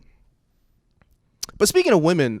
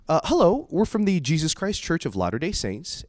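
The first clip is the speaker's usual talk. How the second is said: lightly voiced doorstep missionary; a hint of a rehearsed greeting, pitched up at first; missionary spiel; 5 semitones higher than usual. Missionaries greeting him at the door, lightly voiced. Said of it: "And they go".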